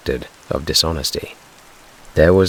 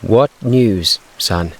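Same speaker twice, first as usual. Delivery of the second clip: brave; 6 semitones higher, 4 dB louder, much slower than usual. A narrator's reading. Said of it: "asked Missus Robinson bravely".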